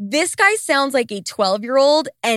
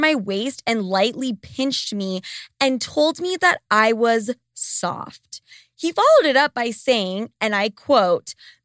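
ordinary talk

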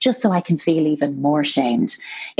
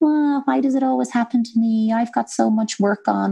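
put-on high, whingy, hard-done-by child's whine; 6 semitones higher than usual. Describing the inner child voices we all have, in a whingy, whiny child voice. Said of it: "that whingy, whiny".

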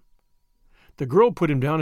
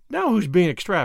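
usual speaking voice

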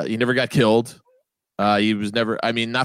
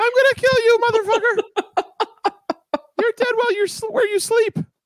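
very high, squeaky, menacing mafia gangster voice. Retelling a call to the Howard Stern show, in a high-pitched Eric impression. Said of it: "This high-pitched Eric is going".

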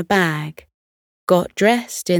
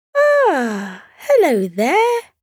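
very high, swooping sing-song voice, drawn-out ah; 10 semitones higher, 3 dB louder than usual. A snowman turns to greet the visitors who asked it a question, high-pitched voice. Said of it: "the snowman greeted them in a high-pitched voice".

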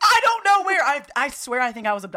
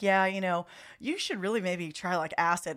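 ordinary talk, nothing marked

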